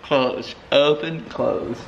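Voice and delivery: slow, deliberate open and close; slow demonstration. Shown as a demonstration. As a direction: spell it out slowly, word by word. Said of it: "Open, look".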